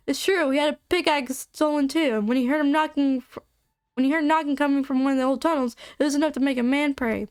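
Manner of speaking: a hint of a southern old-timer; southern accent. Miner telling of knocking in old tunnels, light southern accent. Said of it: "Why am I doing a southern accent now?".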